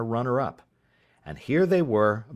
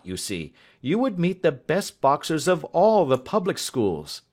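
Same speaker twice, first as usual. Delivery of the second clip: higher, lightly voiced hearty schoolmaster; a hint of a flustered genial master; 6 semitones higher, 5 dB louder than usual. A narrator's reading. Master puzzling it out.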